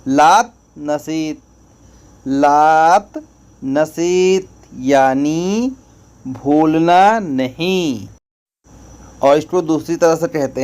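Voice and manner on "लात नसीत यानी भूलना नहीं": slow, word by word. Shown as a demonstration. Teacher repeating the Arabic for learners, slow and separated. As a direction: break it up, slowly with a pause after लात. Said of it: "इसको बोलेंगे".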